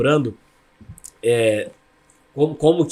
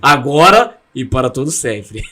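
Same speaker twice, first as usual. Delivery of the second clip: mock formal prayer ending; 3 semitones lower, 5 dB louder, slower than usual. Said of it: "Aí era assim, ó".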